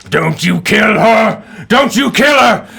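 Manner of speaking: loud high desperate bellow, repeated; bellowing chieftain. Acted. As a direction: bellow it like a frantic old chieftain. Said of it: "You hear this bellowing voice".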